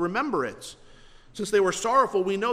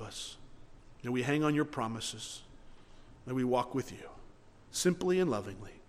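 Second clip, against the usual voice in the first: earnest closing prayer. Acted. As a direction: pray it aloud for the whole church, sincere and humble.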